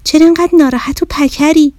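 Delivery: bossy mirror explaining itself; sassy magic mirror. Acted. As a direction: mirror telling the bear to pick it up. Mirror teases and asks.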